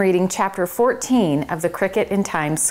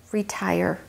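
softly; 5 dB quieter than usual. Acted. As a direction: gently confirm it, nearly under breath. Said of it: "said Chester softly".

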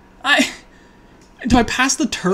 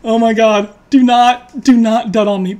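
louder begging not to dud; loud pleading; 2 semitones higher, 6 dB louder than usual. Real, not acted. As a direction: beg the deck out loud. Begging the draw.

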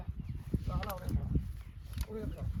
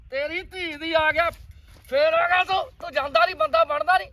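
loud exasperated telling-off; angry scolding; 3 semitones higher, 5 dB louder than usual. Acted. Scene: father loudly scolding his useless son, angry. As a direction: scold him loudly for coming back.

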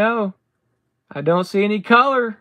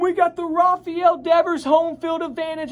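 excited; 4 semitones higher, 3 dB louder than usual. Real, not acted. Big card pulled on camera.

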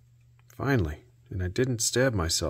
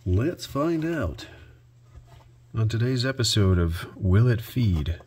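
game show announcer; 2 semitones higher than usual. Pretend. Mock game show intro.

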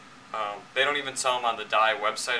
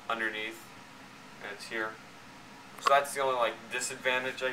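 muffled behind mask vents; speaking inside full mask; through a face mask; 5 dB quieter than usual. Real, not acted. Seen 0: Full paintball mask covers mouth and face throughout labelled words.

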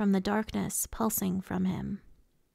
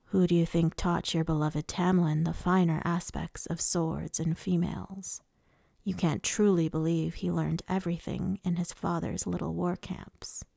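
slightly lowered voice, mild taunt; lightly voiced taunting lord; 3 semitones lower than usual. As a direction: needle them in an understated villain voice. Voices Rhysand taunting the others.

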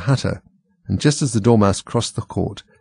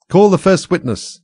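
slow, higher royal command; king voice; 10 semitones higher, 5 dB louder, slower than usual. Acted. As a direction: call it out like a pompous king.

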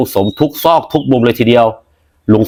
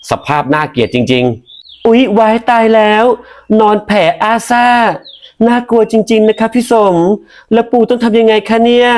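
put-on higher, slow, coy girlish voice; coy young woman; 11 semitones higher than usual. Young woman teasing Uncle Som, high and coy. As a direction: play the coy young woman who pretends to be scared.

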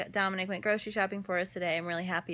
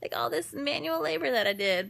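excited boast; 6 semitones higher, 6 dB louder than usual. Retold or imitated. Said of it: "I was like".

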